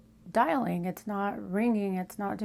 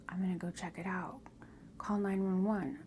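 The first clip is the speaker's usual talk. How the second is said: quick, hushed instructions, softer; urgent whisper; 5 dB quieter than usual. Retold or imitated. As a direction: whisper fast like a husband sneaking out. Husband goes to check the noise.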